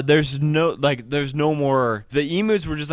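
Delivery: usual speaking voice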